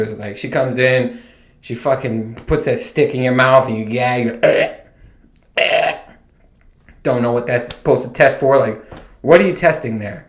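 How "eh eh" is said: short gag noises; choked "eh" retches; mock gagging. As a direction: imitate gagging on a tongue stick. Acts out gagging on the stick.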